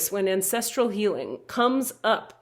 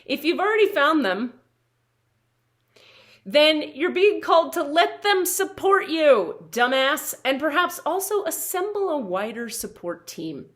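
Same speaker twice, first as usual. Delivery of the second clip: intense edgy delivery; 7 semitones higher, 5 dB louder than usual. Acted. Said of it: "saying all of that stuff with extra intensity and edge".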